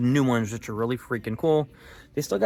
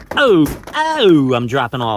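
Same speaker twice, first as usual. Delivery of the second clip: startled yelp; 3 semitones higher, 11 dB louder, slower than usual. Real, not acted. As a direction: caught off guard, blurting out loud. Knocking toys off the shelf.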